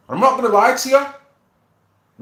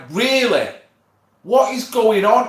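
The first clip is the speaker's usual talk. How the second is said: mock disgust; 5 semitones higher, 3 dB louder than usual. Retelling disgust in pub toilet.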